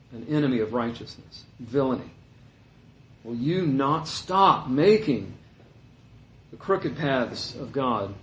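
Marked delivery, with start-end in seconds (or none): 3.2-8.1 slow misread. Shown as a demonstration. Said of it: "I'm not reading that correctly".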